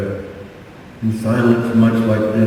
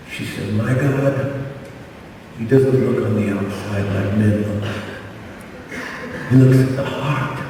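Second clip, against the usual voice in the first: soft and tender; 6 dB quieter than usual. Retold or imitated. Gentle retold words of Stacy.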